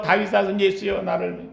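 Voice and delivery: a timid half-hearted cry; shy, embarrassed plea. Shown as a demonstration. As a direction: mumble it as if ashamed. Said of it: "부끄러워가지고".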